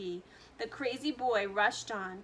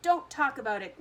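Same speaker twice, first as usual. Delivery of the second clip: wailing; 3 semitones higher, 7 dB louder than usual. A narrator's reading. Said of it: "wailed Missus T V".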